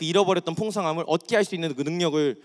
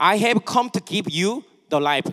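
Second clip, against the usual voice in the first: trying for native English pronunciation; 3 semitones higher, 4 dB louder than usual. Korean-speaking preacher reading a verse aloud in English; attempted native English accent. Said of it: "나름 원어민 발음으로 하려고 노력했습니다".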